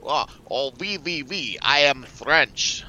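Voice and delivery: hammed-up French, high then slow and loud; mock French accent. Soldiers in berets fooling guards, hammed-up French accent. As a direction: play a bad fake Frenchman. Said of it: "we put this on and we go".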